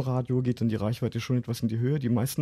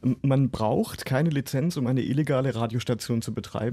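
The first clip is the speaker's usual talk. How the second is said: ironic. Pretend. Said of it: "machen wir mal die Ironie-Tags an".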